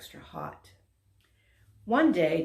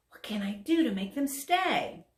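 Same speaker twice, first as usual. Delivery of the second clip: whispered thought; 5 semitones higher than usual. Acted.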